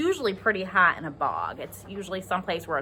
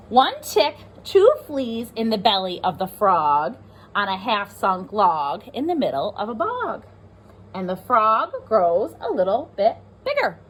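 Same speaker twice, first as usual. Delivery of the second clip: put-on lively read-aloud for young children; teacher reading a rhyming book to the class; storybook reading; 3 dB louder than usual. A narrator's reading.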